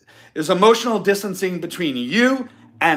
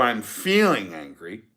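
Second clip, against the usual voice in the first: slow calm statement; 7 semitones lower, 4 dB quieter than usual. Shown as a demonstration. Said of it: "it's completely different".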